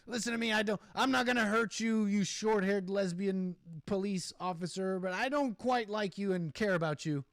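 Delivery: half-hearted hostility, overly careful; mock toned-down insult. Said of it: "Even if she said all that".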